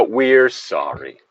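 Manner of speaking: slow, drawn-out mock corporate sorry; mock corporate apology. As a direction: say it slowly like a company apologising.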